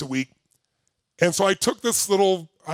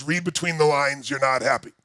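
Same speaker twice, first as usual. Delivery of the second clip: lower, dry inner voice calling the bluff; 5 semitones lower than usual. Retold or imitated. The brain mocks the empty affirmation, low and dry. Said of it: "your brain goes".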